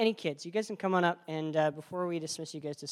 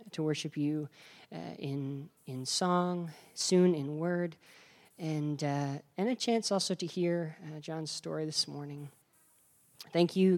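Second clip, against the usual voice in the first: earnest pastoral prayer voice. Real, not acted. Pastor prays over the children.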